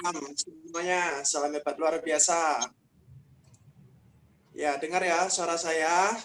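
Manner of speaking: quiet, distant voice on a call; faint call audio. Real, not acted. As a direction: sound like a weak mic. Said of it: "agak sedikit kecil".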